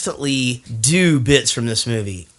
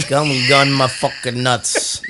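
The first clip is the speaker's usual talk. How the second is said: put-on New York accent. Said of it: "That's his prison accent".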